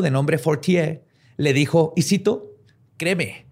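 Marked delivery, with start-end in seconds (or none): 3.0-3.5 put-on slow, hammy French accent; cartoonish French inspector accent; bad French accent. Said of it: "Tenía un pésimo acento francés".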